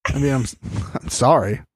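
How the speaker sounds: low, dismissive fake apology; mock non-apology. Imitating her shrugging off crying Mariah, mock non-apology. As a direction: imitate a careless sorry, voice dropped low. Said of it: "Nerys is like".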